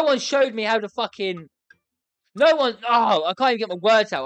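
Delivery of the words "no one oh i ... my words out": flustered, rushed frustration; too stressed to get it out; stressed, tongue-tied. Real, not acted. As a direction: stumble over the words in exasperation. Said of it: "I'm actually that stressed".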